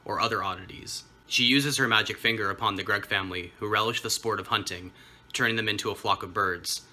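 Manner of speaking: crisp storybook recap voice; scripted synopsis read. Acted. Reads a prepared book synopsis.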